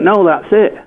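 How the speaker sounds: high-pitched imitation of mum; mother's voice.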